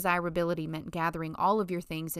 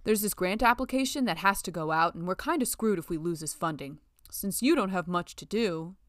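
lightly voiced smug male colleague; a hint of a condescending coworker; 4 dB louder than usual. Brian dumping his work on Letty, lightly voiced and smug.

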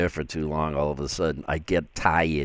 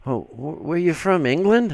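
retold question; 9 semitones higher than usual. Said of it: "I had people saying".

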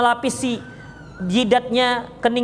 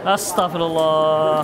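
slow, lower, drawn-out astagfirullah; weary sigh; 7 semitones lower, much slower than usual. Real, not acted. Ustadz despairing at the question, slow and weary. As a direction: let astagfirullah sag out slowly.

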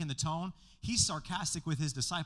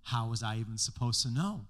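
dry, sarcastic fake apology; mock sorry, dripping sarcasm; sarcastic Paul; 4 semitones lower than usual. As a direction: play innocent with a sneer underneath. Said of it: "Jesus is sarcastic all the time".

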